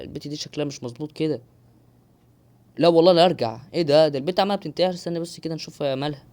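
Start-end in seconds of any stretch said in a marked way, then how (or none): 2.8-3.6 louder, exasperated cry; frustrated outburst. Real, not acted. Gamer yelling at the game after falling back, frustrated. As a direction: burst out at losing progress.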